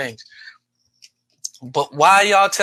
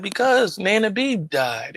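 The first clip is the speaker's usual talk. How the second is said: put-on small, slow child voice, a touch higher; child's answer; 4 semitones higher, slower than usual. As his five-year-old self telling his uncle, slow and small. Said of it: "I said".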